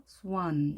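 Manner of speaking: 스완 with a relaxed "ah" vowel; weakened vowel. Shown as a demonstration. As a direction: let the vowel in 스완 weaken before the n. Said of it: "약하게".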